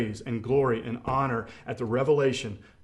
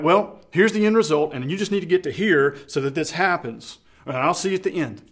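mechanical, detached; 3 semitones higher, 4 dB louder than usual. Retold or imitated. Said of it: "That's not the way that God is".

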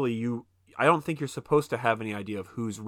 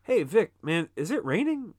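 higher-pitched mock stoner question; imitated stoner; 6 semitones higher than usual. High friend in the pool, imitated stoner. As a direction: play a friend who is high, voice lifted. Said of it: "Rel is, like, high".

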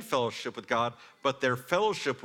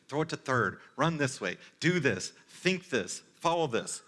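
mock yelling voices; 3 semitones higher, 3 dB louder than usual. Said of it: "competing voices yelling at you".

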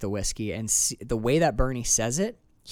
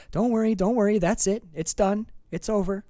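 mock soothing Bernie; 7 semitones higher than usual. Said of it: "he opens his arm with a razor and says".

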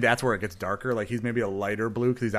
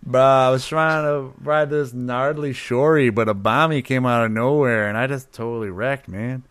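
loud, hyped surfer bro; surfer dude voice; 6 dB louder than usual. Pretend. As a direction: talk like a stoked beach bum. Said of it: "speak like a surfer at an advanced level".

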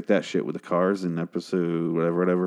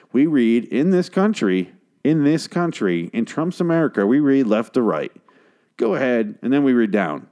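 mock rant; 4 semitones higher, 4 dB louder than usual. Mock rant about reading direction.

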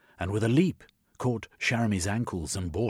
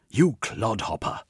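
shouted; 4 semitones higher, 5 dB louder than usual. A narrator's reading. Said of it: "he shouted".

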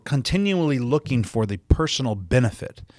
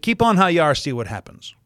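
mother's warning; 6 semitones higher, faster than usual. Retold or imitated. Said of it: "how did she say that?".

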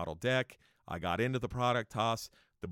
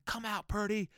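strained, high holler held back in volume; retold screaming; 10 semitones higher than usual. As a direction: imitate an enraged man yelling at a front door. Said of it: "screaming and yelling".

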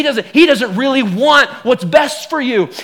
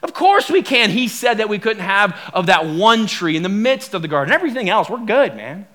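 carefree Eve. Acted. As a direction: brush it off like it's no big deal. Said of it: "And she goes".

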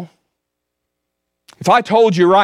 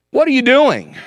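pleading cry; 8 semitones higher than usual. Acted. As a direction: ask it again as a desperate plea, much higher. Repeated complaint, much higher.

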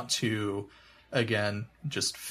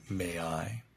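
low intimate ask; 5 semitones lower, 8 dB quieter than usual. Shown as a demonstration. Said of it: "I just look at them and say".

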